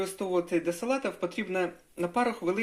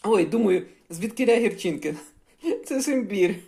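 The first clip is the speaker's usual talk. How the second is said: surprised; 3 semitones higher, 7 dB louder than usual. Real, not acted. Tastes bitterness in smoothie.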